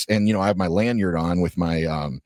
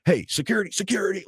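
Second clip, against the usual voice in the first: retold calling out; 11 semitones higher, faster than usual. Lady tries to get security to come over, mock calling out. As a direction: imitate hailing someone in a raised pitch. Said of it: "trying to get security to come over".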